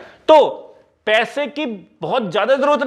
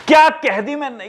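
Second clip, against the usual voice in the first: self-praise; 4 semitones higher than usual. Pretend. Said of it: "कितना genius हूं मैं".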